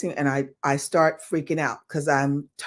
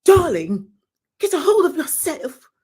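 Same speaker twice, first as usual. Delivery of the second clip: higher, louder firm "darling"; mock stern choreographer; 10 semitones higher, 6 dB louder than usual. Choreographer shaking dancer, higher and louder firm command. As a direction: snap her out of it, grandly. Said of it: "she goes".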